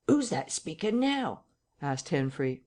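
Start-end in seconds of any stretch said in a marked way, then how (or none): 0.1-1.4 high, slow, wondering question; eavesdropper's question. A narrator's reading. Henfrey to Hall at the parlour door, high and wondering. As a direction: draw out the question at a high pitch. Eavesdropper asks who is speaking.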